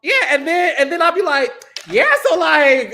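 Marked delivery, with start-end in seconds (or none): 1.9-2.9 bold voice. Acted. Shows his bold voice.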